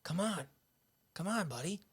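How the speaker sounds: high, coaxing call; brother beckoning. Retold or imitated. Brother calling him to come see, high coaxing. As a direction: imitate brother urging him upstairs. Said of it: "He goes".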